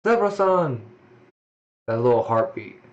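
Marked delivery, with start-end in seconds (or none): 0.1-0.8 high, loud cry of a name; alarmed shout; calling out. Acted. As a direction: call to him in alarm. Character cries out name.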